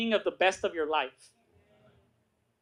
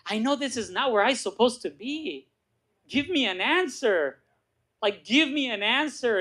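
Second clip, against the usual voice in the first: mildly acted desperate prayer; pleading; 3 semitones higher than usual.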